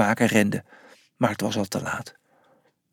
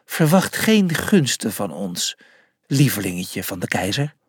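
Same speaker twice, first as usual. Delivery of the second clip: sneering threat; 6 semitones lower than usual. Acted. Rival sneers at Julius.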